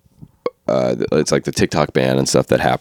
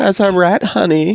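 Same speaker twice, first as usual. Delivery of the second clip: very high mock Japanese accent. Capping the joke about the turtles' coach, mock Japanese accent. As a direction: squeal it in an odd Japanese accent. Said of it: "odd Japanese accent".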